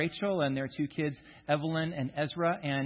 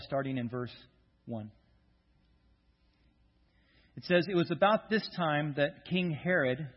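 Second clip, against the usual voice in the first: scripture reading. Acted. Pastor reads Acts chapter twelve aloud to the congregation, measured. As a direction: read the passage steadily to the church.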